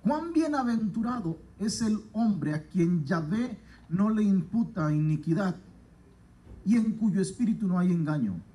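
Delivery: unhurried pulpit reading with falling phrase ends; scripture reading. Acted. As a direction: read each phrase like holy text, letting it settle. Reads the psalm aloud.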